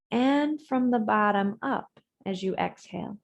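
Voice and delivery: measured yoga-teacher guidance with long pauses; guided breathing meditation. Real, not acted. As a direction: guide them through each breath, leaving space between phrases.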